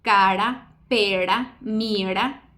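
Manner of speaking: "cara, pera, mira" with a single tapped R between vowels; tap R demo. Shown as a demonstration. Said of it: "en palabras como".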